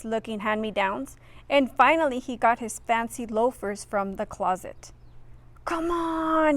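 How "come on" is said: straining grunt; grunting with effort. Acted. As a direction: push it out while forcing shoes on. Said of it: "he grunted".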